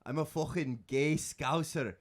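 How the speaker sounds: put-on slow first try at a Scouse accent. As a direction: drag out a rough Scouse voice, half-finished. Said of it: "I can do regional British accents".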